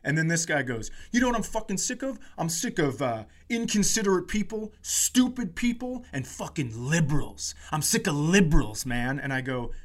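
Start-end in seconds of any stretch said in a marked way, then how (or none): 1.1-9.2 imitated angry rant. Retold angry man's rant.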